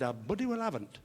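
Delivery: comic speech defect, words mangled by fronted consonants; impeded, muddled diction; Harry. Acted. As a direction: answer tongue-tied with t and d sounds. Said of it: "a slight speech defect".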